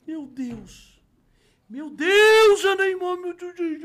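high, loud starstruck cries; freaking out. Retold or imitated. Shop owner seeing Neymar's video, high and loud. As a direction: lose it like a starstruck fan.

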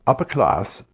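refined upper-class English accent; upper-class British accent. Shown as a demonstration. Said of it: "say, a British accent".

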